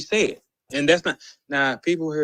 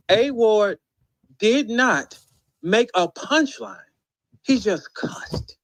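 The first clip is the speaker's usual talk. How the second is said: "did not" high and separated, each phrase set apart by pauses; exasperated emphasis; 6 semitones higher, slower than usual. Real, not acted. Complaining about an award for cussing, exasperated high emphasis. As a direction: spell out "did not make a punchline" in high, deliberate chunks.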